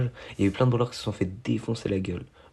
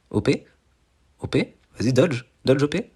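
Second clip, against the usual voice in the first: high and louder, egging him on; high playful chant of encouragement; teasing cheer; 5 semitones higher, 3 dB louder than usual. Real, not acted. Cheering the opponent to dodge.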